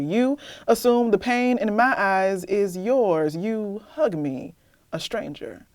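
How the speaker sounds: measured spoken-word poem, deliberate pauses; spoken word performance; poem reading. Acted. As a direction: read it like a testimony, steady and grave. Reads her poem aloud.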